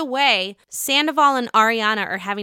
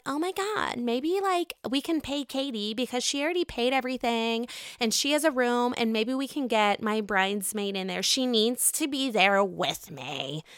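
mock Scheana; 6 dB quieter than usual. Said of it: "she's like".

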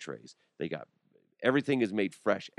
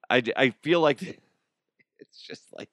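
laughing; 4 semitones higher, 4 dB louder than usual. Real, not acted. Laughing at the tears study.

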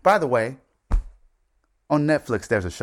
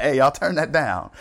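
higher, louder mock order; mock calling out; 8 semitones higher, 5 dB louder than usual. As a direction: call it out to a noisy room, half-joking. Acts out telling players off.

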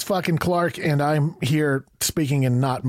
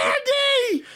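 silly nickname call. Pretend. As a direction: stretch the nickname out up high. Repeating the teasing nickname.

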